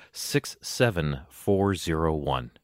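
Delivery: slow, drawn-out Kansas accent reading of the numbers. Shown as a demonstration. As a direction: read the zip code like a Kansas local, slowly. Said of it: "I will read this in a, a Kansas type accent".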